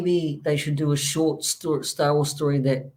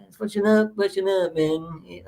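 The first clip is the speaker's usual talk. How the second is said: put-on failed Jamaican accent; 3 semitones higher than usual. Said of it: "Oh, that's not it either".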